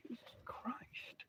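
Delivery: breathed-out, slow Jesus Christ under the breath; a slow, soft whispered oath; exasperated whisper. Real, not acted. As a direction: whisper it to yourself in disbelief. Fighting the blanket with the dog.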